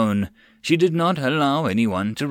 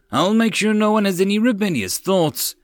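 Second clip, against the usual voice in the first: eager servant; 10 semitones higher, 3 dB louder than usual. A narrator's reading. Ex-slave promising.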